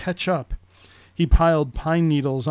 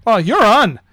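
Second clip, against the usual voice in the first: put-on higher, louder boy voice; Brendan; 5 semitones higher, 5 dB louder than usual. Boy accepting his sister's race, high kid voice. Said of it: "I'll be Brendan".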